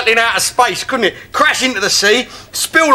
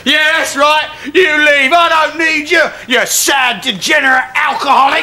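indignant shouting; 4 semitones higher than usual. Acted. Shouting at departing friends.

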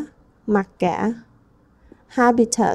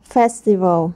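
Festival with FES stressed; stress on first syllable; 2 semitones lower than usual. Shown as a demonstration. Teacher modelling stress for the class, first syllable stressed. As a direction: hit the first part of Festival. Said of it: "Ta nhấn phần một".

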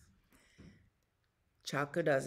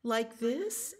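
lightly voiced, higher mother bear; gentle question; 7 semitones higher than usual. A narrator's reading. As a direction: offer comfort with a rising question. Bear offers the chick a hug.

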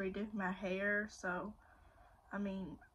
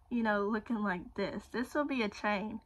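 lips stretched sideways by finger; talking with mouth pulled open; finger pulling mouth corner. Real, not acted. Seen 2: Finger stretches mouth corner open, showing braces, throughout the labelled words.

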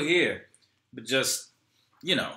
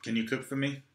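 put-on pouty child; 4 dB quieter than usual. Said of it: "looking at Rocky with pouty eyes".

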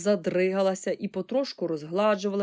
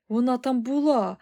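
raised, emphatic exclamation; higher, loud insistence on "була"; exclaiming boy; 4 semitones higher, 5 dB louder than usual. A narrator's reading. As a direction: cry out "була" as a revelation. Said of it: "вигукнув Чарлі".

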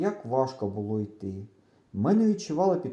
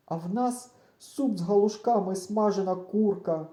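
holding back tears; 7 semitones higher than usual. A narrator's reading. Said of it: "ледве стримуючи сльози".

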